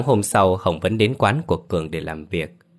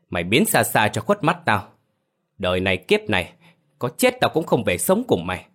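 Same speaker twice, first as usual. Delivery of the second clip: gào lớn. Acted. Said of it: "Hồng gào lớn vào mặt của Dũng".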